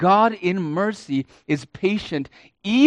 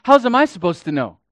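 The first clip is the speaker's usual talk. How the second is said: loud, high, scornful throwback; contemptuous retort; 6 semitones higher, 7 dB louder, faster than usual. Acted. Cain answering God with loud contempt. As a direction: fling the words back at God with contempt. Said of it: "throws back in the face of God with contempt".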